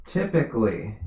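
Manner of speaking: teacher underlining typically mid-sentence; stress on typically. Shown as a demonstration. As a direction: typically set apart and weighted. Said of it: "emphasis on typically".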